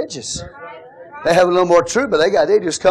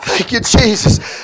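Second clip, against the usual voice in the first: tearful thanks; 6 semitones higher, slower than usual. Real, not acted. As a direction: let the thanks break into tears. Quiet tearful thanks after shout.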